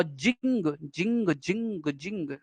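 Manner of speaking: जिंग repeated softly with a short i and ringing ng; short i syllable. Shown as a demonstration. Teacher isolating the last syllable, short i in जिंग. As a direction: say जिंग as a separate syllable, over and over. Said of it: "जिंग मतलब छोटी ई आई ना".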